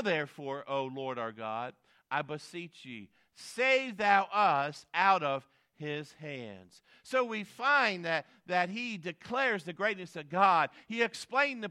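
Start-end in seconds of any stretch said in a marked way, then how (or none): 0.0-6.8 very slow, weighty plea; crying out for deliverance. Acted. Preacher reading Hezekiah's prayer for deliverance, slow pleading. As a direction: draw out each word of the plea. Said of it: "Notice he cried out for deliverance".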